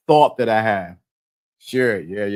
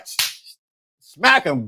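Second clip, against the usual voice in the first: usual speaking voice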